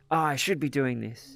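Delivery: a hint of a pushy, demanding inner voice; harsh self-pressure. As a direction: lightly imitate someone nagging themselves. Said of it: "the tone of your voice was like".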